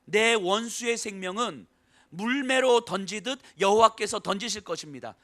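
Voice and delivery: slow, deliberate, weighty quote; solemn pointed recitation; slow emphasis. Shown as a demonstration. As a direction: let each word land. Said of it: "이 말씀을 하면서".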